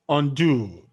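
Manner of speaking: short UN, stressed falling DO in undo; stress on second syllable. Shown as a demonstration. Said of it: "Did you see it?".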